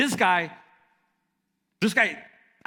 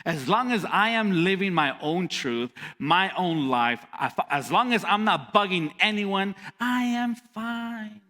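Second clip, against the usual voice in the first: careless shrug. Retold or imitated. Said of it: "we just shrug our shoulders and we're like".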